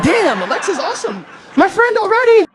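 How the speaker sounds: high, loud, laughing admiration; laughing delight. Retold or imitated. Comedian laughing about the hotel Alexa. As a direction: crack up while praising Alexa.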